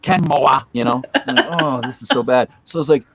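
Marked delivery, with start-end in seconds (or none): 0.0-0.6 "Kenmore" with an extra syllable, as "Kenmo-ah"; Boston pronunciation. Shown as a demonstration. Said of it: "Like, adding syllables".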